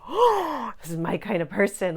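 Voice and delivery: very high, loud thrilled squeal; excited squeal. Retold or imitated. Thrilled squeal on hearing a client saw gnomes. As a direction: gush like a delighted fan. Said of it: "I was like".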